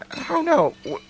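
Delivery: high, breathless startled cry; startled fear. Acted. Scrooge startled by the ghost, high frightened cry. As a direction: jump at the ghost's arrival.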